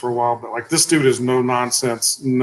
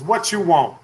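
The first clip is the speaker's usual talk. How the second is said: higher-pitched mimicked receptionist; retold blunt demand; 4 semitones higher than usual. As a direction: imitate a receptionist challenging a walk-in.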